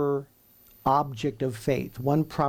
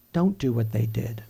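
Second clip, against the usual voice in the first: whispered warning; 3 semitones lower than usual. Acted. God voiced speaking to us.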